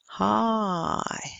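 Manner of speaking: "Hi" drawn out, gliding from ah towards ee; diphthong demo. Shown as a demonstration. Teacher warning about diphthong endings, "Hi" as a long drawn-out glide. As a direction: stretch the diphthong in "Hi" slowly through to its end. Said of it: "don't make those diphthongs too close".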